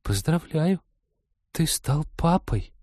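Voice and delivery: high, slow, hollow ghostly announcement; sepulchral voice. Acted. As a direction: intone it like a voice from the grave. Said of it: "загробным голосом объявила".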